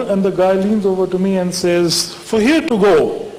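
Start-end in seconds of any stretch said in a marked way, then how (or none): 2.1-3.3 slow, mild imitation of a Spanish accent; a hint of a Spanish-accented counter clerk. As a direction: lightly mimic the clerk's Spanish accent, drawn out. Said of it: "And he had a Spanish accent".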